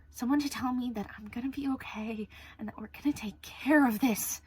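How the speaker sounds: tearful whisper. Real, not acted. Lonely confession.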